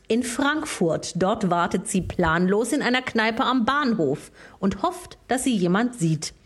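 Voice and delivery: reading lyrics like a poem; solemn mock poetry reading; dramatic reading. Reads song lyrics aloud.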